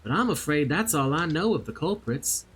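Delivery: a hint of a southern accent, NPC storytelling. Loish Kana explaining the theft to the adventurer, light southern accent. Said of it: "I will do my best to do a southern accent".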